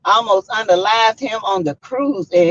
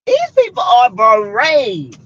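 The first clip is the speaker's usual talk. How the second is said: emphatic; 3 dB louder, slower than usual. Real, not acted. Third emphatic repeat.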